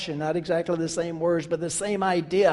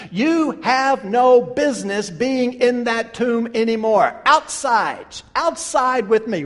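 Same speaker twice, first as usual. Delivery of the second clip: raised, insistent preaching as Jesus; urgent, emphatic call, pitched up; commanding summons; 3 semitones higher than usual. Acted. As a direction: summon someone out of danger with authority. Preacher voices Jesus summoning Lazarus.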